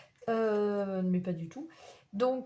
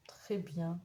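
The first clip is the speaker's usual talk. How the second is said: whisper; 4 dB quieter than usual. Real, not acted. Aside while drawing cards.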